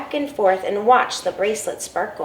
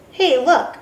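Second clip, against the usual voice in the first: calling out; 7 semitones higher, 3 dB louder than usual. Acted. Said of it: "he called".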